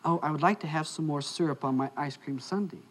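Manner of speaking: put-on soft, sweetly asking girlfriend; retold loving request, spoken softly. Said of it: "very lovingly".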